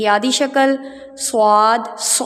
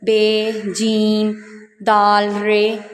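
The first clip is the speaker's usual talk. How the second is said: slow letter naming; much slower than usual. Shown as a demonstration. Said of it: "जैसे अलिफ".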